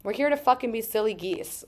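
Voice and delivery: playful, lightly voiced kid; a hint of a silly kid voice; silly inner child. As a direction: declare it like a gleeful child. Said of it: "Like, she's like".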